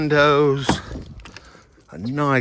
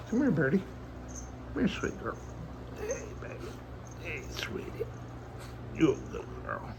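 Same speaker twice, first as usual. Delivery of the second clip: talking to a dog; 8 semitones higher, 11 dB quieter, much faster than usual. Real, not acted. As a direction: coo at the dog in a high voice. Calling the dog sweetly.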